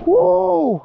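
high, weak imitation of a trail whoop; Wojo's yell. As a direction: try a big holler and fall short. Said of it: "I wish I could yell like Wojo".

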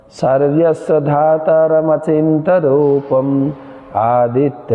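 slow chanted Sanskrit verse; shloka recitation. Acted. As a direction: intone the verse slowly like scripture. (ধীর লয়ে শ্লোক পাঠ)

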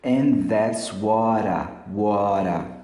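"what I" with the T as a tapped R. Shown as a demonstration. Teacher showing T turning to R in "what I", linked. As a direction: say "what I" low, linked like "wara". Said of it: "Tira o T aqui e coloca um R".

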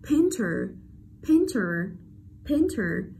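Painter stressed at the start, short -er; short unstressed schwa. Shown as a demonstration. Teacher drills unstressed vowel, painter with short -er. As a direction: model "painter" with a brief final schwa. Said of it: "không nhận trọng âm nên nó là âm".

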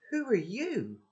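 put-on girl woken by an intruder, alarmed; startled girl. A narrator's reading. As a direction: demand it in a fright.

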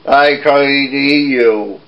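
lightly voiced big goat, slow and steady; slow goat threat. Big billy goat warns the troll, slow. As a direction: say it slow and sure of yourself.

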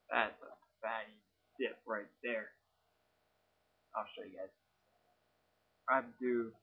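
talking with a lip full of dip; chewing tobacco. Real, not acted. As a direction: speak round a fat wad of tobacco. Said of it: "Go ahead, take a fatty".

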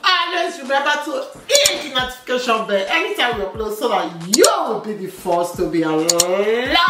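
drawn-out, singsong sign-off; vlogger outro. Real, not acted. Wife signing off to channel viewers, slow singsong outro. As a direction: stretch key words in a swinging subscribe pitch.

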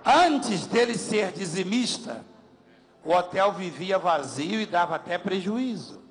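very slow, spelling it out for the crowd; slow deliberate explaining voice; slow translation. Shown as a demonstration. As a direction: lay each word down slowly so all can follow. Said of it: "eu vou traduzir".

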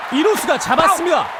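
loud, high shout on the catch; excited play call. Real, not acted. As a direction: belt out the out.

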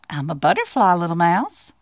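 understated, low butterfly reply; softly spoken butterfly. Acted. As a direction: answer gently as a storybook butterfly. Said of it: "she breathed".

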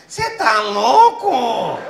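slow, stretched caricature of the wife; wife's voice. Retold or imitated. Comic retelling his wife scolding him, drawn-out mock voice. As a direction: drawl it out like a nagging wife. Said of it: "É a voz da minha mulher".

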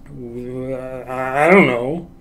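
very drawn-out, wavering groan of a line; warbling mumble. Shown as a demonstration. Showing animators where body energy makes sound, slow warble. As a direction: stretch it slowly with a wobble, rising at the end. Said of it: "this is the warble".

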